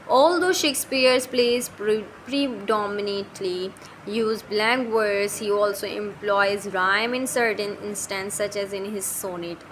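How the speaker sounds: slow, deliberate dictation of English notes; reading notes aloud. Shown as a demonstration. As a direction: read each word out slowly for the class. Reads English notes slowly.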